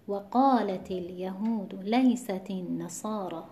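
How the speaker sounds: slow, measured recitation of the verse; Quran recitation. Shown as a demonstration. Teacher reciting the Baqarah verse for students in recitation style. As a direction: recite it slowly and evenly. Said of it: "در سورهٔ مبارکهٔ بقره".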